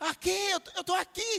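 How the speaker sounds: put-on very high, shrill little kid yelling. Retelling a game where a child calls to a parent: imitating a child shouting.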